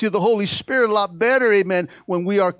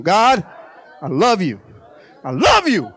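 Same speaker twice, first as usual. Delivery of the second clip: heartfelt prayer; 2 semitones lower, 4 dB louder than usual. Shown as a demonstration. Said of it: "Say that with me".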